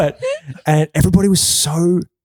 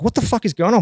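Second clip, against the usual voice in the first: imitated sound techs; 8 semitones higher, faster than usual. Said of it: "they're like".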